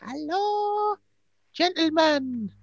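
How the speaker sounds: put-on Geordie old woman. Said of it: "Oh, it's Geordie, Dusty, Margaret".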